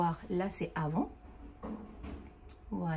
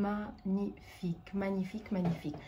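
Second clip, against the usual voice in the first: admiring murmur; 4 dB quieter than usual. Real, not acted. Admiring the finished brows.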